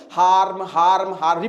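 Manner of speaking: "हार्म" chanted evenly with the "r" sounded; repetition drill. Shown as a demonstration. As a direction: repeat "हार्म" steadily for students. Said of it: "हार्म को कई बार बोलिए". ("हार्म" बार-बार, "र" के साथ)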